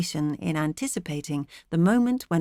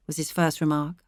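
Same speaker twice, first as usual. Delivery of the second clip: ordinary delivery, nothing marked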